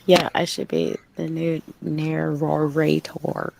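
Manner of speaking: slow delivery with "narrator" stretched into extra syllables; "narrator" overdone, slowly, syllable by syllable; mangled "narrator". Pretend. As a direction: draw out "narrator" as narr-or-ray-tor. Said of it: "That's almost narrator".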